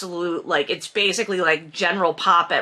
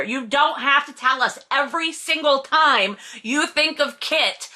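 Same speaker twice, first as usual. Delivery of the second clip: high-pitched exasperated rant; fed up, pitch riding high; annoyed; 6 semitones higher than usual. Real, not acted. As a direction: rant in comic exasperation at the author. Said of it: "it's annoying to me".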